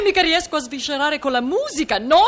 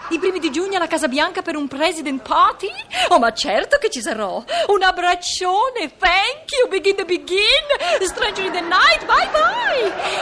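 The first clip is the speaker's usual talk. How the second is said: gushing diva on the phone; 5 semitones higher than usual. Acted. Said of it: "hello, Lyndon".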